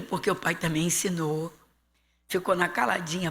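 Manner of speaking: normal talking voice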